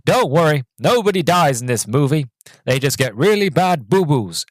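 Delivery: reassuring storybook narrator, done as a put-on voice; mock narrator soothing the audience. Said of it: "He goes".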